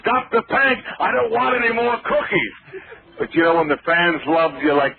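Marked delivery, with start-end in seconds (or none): 0.0-2.5 mock panic. Mock pleading to fans.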